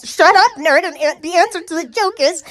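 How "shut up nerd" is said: mock retort. Retorting to honors girl.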